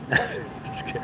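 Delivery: soft laugh through words; chuckling it out. Real, not acted. Laughing aside.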